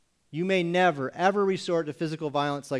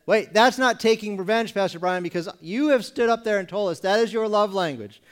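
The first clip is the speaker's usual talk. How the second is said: a touch of a congregant's indignant objection, louder; mock protesting congregant; 4 semitones higher, 5 dB louder than usual. Congregant teasing the pastor about sarcasm, mock protest. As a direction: object to the pastor as a smug listener.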